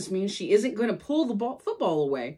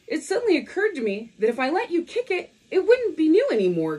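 put-on higher, quick bratty girl voice; Lucy's voice; 8 semitones higher, 4 dB louder, faster than usual. Lucy explains to Charlie Brown, high and fast. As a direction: rattle it off like a know-it-all.

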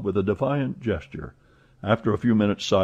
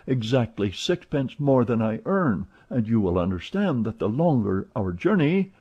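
a hint of an eager servant, higher; lightly voiced valet; 4 semitones higher than usual. Passepartout chatting to Fix, lightly voiced. Passepartout frets about his burner.

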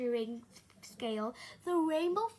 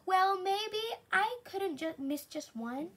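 wavering; 6 semitones higher than usual. A narrator's reading. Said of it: "he thought".

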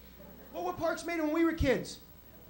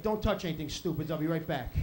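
stern dad; 9 semitones lower than usual. Retold or imitated. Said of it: "My dad's like".

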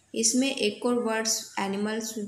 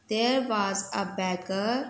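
very slow, word by word; slow reading aloud; much slower than usual. Shown as a demonstration. Teacher reading the story line to students, very slow. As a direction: read it slowly so the class follows. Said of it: "reading aloud to class".

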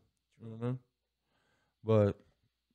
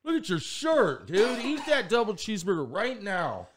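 retold scolding; 3 semitones higher than usual. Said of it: "I said".

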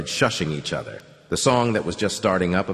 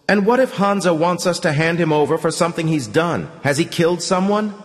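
high, louder prying woman; pry with curiosity, pitched up; inquisitive woman; 8 semitones higher, 4 dB louder than usual. A narrator's reading. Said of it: "a woman asked inquisitively".

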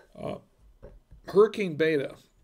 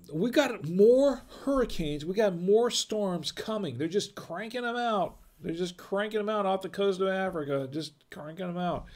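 meteorologist voice; 4 semitones higher than usual. Pretend. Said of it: "let me talk like a meteorologist".

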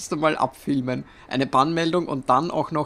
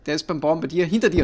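panicking gamer; 4 semitones higher, 5 dB louder, faster than usual. Real, not acted. Urgent warning to teammate.

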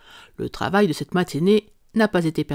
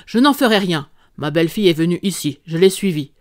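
angry; 4 dB louder than usual. Acted. Angry visitor confronts Holmes.

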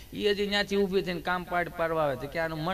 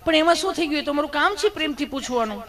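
higher, sugary nurse voice; sweet nurse; 8 semitones higher, 4 dB louder than usual. Retold or imitated. Nurse answering blushing Gabho, higher sugary voice. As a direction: innocently explain her job, sweetly. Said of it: "nurse બેને".

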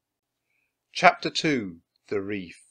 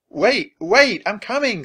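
calling out; 8 semitones higher, 7 dB louder than usual. Acted. Jack hurries after Annie.

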